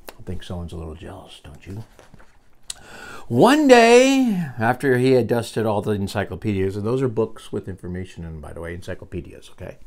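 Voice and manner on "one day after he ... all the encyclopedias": animated, projected read-aloud opening; story narration. Acted. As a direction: launch the story brightly for a young listener. Reads story to child.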